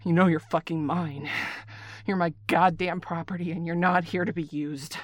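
loud, firm possessive claim; possessive anger. Acted. Caller claiming the partner as property, loud anger.

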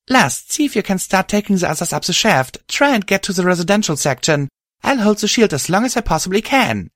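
high, loud urgent orders; yelling. Acted. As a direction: yell over the fight. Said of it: "I yelled".

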